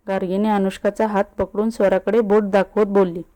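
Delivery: ordinary delivery, nothing marked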